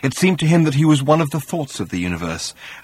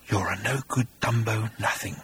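demonic whisper; 8 dB quieter than usual. A narrator's reading. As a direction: hiss it close to a dying man. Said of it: "whispered the creature".

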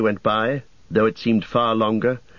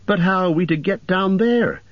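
higher, small worried hobbit; 8 semitones higher than usual. Acted. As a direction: ask as the anxious hobbit. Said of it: "said Pippin".

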